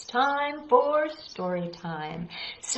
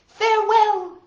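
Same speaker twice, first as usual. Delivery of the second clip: dramatic farewell; 12 semitones higher, 8 dB louder than usual. Acted. Poem's cook bids farewell.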